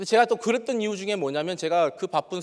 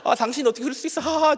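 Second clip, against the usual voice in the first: forced laughter; 9 semitones higher than usual. Retold or imitated. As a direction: laugh it off through clenched anger. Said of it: "안 지려고 계속 하하하 웃으면서".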